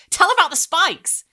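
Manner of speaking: put-on high, loud eager girl; excited child. A narrator's reading. Girl urging brother to tell, high and eager. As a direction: urge him on, can't wait.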